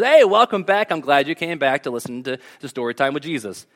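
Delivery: preacher mocking a cheery Jesus; mock cheery welcome. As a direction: play a fake-friendly host. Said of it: "and he goes".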